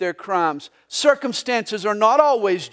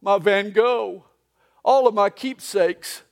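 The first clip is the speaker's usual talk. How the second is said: mock sobbing Snoopy; slower than usual. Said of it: "and he's sobbing".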